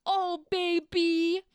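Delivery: slow, high mock swoon; hammed-up melting gush; swooning lover. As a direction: stretch it out, lovesick and loud. Acting Cassius swooning.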